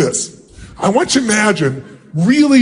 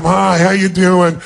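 bored greeting; 3 semitones lower, slower than usual. Shown as a demonstration. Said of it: "like it's a total waste of your time".

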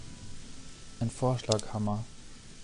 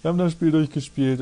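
mock suffering; 3 semitones higher than usual. Gespieltes Leiden. (gespielt leidend, langsam)

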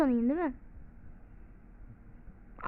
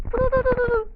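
urgent stop stop; 9 semitones higher, 5 dB louder than usual. Real, not acted. Urgent calling in fight.

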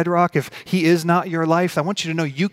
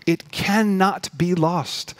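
slow, higher-pitched repeat for emphasis; drawn-out, raised declaration without extra volume; insistent assurance; 5 semitones higher, much slower than usual. Real, not acted. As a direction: lift the pitch and space out every word. Preacher repeats the assurance, lifted.

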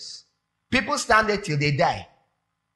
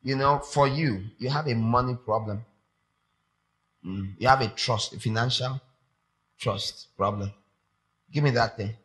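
God speaking gently; 3 semitones lower, 3 dB quieter than usual. Retold or imitated. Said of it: "he's saying".

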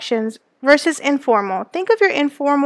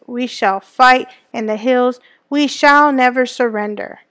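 Churchill speech reading. Acted. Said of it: "excerpt from Winston Churchill's nineteen forty speech".

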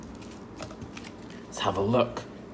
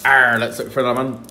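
pirate voice; 5 dB louder, much faster than usual. Pretend. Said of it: "the pirate voice".

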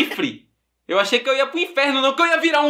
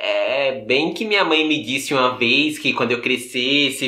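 slow grumble swelling to outburst; 8 semitones lower, slower than usual. Acted. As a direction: start low and drawn out, rise toward the end. Sulky remembered warning swells into outburst.

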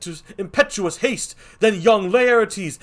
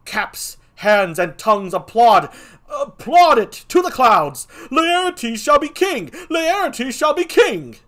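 much higher and louder, breathless alarm; frantic messenger; 10 semitones higher, 10 dB louder than usual. Acted. Messenger warning the king of the rioting mob, frantic. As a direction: rush the warning like the mob is at the door.

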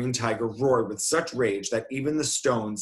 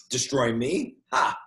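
scoffing beast laugh; 3 semitones higher than usual. Acted. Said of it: "the beast laughed".

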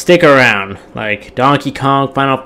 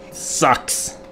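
whispered grumble; 2 semitones higher, 8 dB quieter than usual. Real, not acted. Grumbling about Castle Defense.

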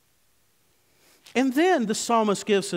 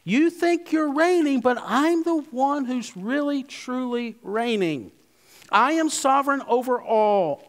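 a touch of a triumphant king taunting rulers. Acted. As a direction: speak as the risen King, lightly voiced. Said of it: "he's saying to the red-faced rulers".

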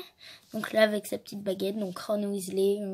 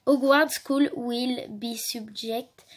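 French accent; slower than usual. Real, not acted. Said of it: "Vous allez voir mon accent de ouf".

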